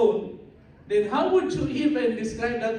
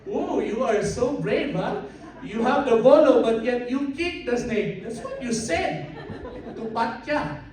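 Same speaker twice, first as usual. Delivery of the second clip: amazed; 3 semitones higher, 4 dB louder than usual. Acted. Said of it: "the Cebuano guy was so amazed".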